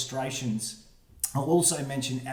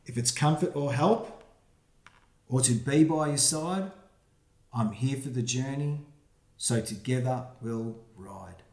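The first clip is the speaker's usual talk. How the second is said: put-on reading to children. Reads rhyming picture book aloud.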